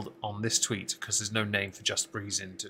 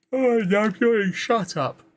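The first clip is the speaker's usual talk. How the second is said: much higher and louder, a squealing fake panic; mock dismay; 12 semitones higher, 6 dB louder than usual. Real, not acted. Streamer catching himself yawning, mock-horrified squeal. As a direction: yelp in jokey horror at your own yawn.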